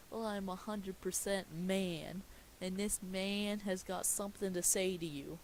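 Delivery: put-on slurring a bit drunk. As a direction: talk like you're tipsy. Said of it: "looking all drunk".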